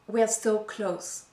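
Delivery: imitated husband's pep talk, slow and falling; husband's reassurance. Husband answering his wife's complaint, mock reassurance. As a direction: draw out the quoted reassurance, landing it with a fall. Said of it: "when I complain, he says".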